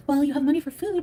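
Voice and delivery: high mock voice of a critic; sneering impression of a commenter. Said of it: "you know".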